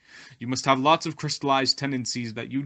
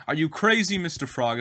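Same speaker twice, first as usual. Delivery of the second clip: incredulous scorpion; 4 semitones higher than usual. Acted. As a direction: scoff as if the idea is absurd. Scorpion scoffs at frog's idea.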